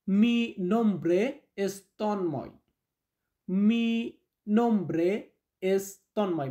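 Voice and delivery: very slow, word by word; slow teaching model. Shown as a demonstration. Teacher introducing his name in Spanish, very slow. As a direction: drill it word by word for beginners. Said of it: "teacher models phrase".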